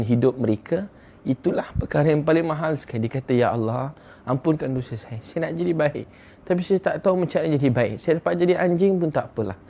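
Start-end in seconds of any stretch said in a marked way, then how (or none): 3.4-9.6 pleading that climbs higher, mildly imitated; retold tearful repentance. Sinner begs God to forgive him, mildly imitated tearful pleading. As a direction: act out a penitent's plea, only a touch tearful. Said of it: "Dia mula menangis".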